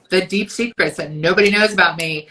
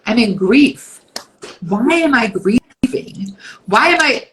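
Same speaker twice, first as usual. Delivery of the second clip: baffled outburst; 3 dB louder than usual. Retold or imitated. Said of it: "And I'm like".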